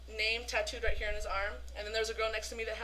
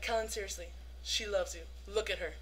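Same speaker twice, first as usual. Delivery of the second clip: earnest plea; 4 semitones lower, 6 dB quieter than usual. Retold or imitated. Girl earnestly urging the star.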